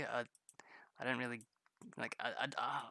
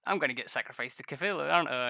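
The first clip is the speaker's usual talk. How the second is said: mock panic; 6 dB louder than usual. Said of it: "and you're just like".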